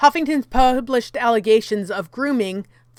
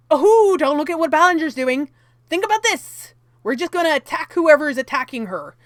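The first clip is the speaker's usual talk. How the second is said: mock deflection; 4 semitones higher, 3 dB louder than usual. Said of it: "this seems like a red herring".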